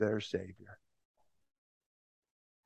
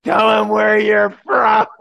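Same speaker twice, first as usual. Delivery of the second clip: slow, loud, higher yell; heckler's shout; 5 semitones higher, 7 dB louder, slower than usual. Retold or imitated. Heckler comes back and shouts at the preacher again, slow yell. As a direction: drag the demand out at full voice.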